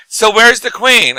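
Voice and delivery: slow, high, dopey tourist question; idiot American tourist. Retold or imitated. Retelling the tourist at the palace, dopey and slow. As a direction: ask it like a clueless American tourist. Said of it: "some idiot American went like".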